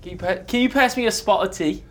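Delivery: a lightly done, laughing fake British accent; a hint of a hammed-up English tea-party voice; mock British accent. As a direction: play at being posh and English, half joking. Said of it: "you gotta judge between us".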